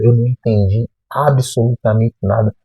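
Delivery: "absolutamente nada" restated with measured weight; emphatic ABSOLUTAMENTE NADA. Real, not acted. Answering a doubter who says he exaggerates, firm emphasis on "absolutamente nada". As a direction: insist on "absolutamente nada", every part distinct. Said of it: "Eu não tô exagerando".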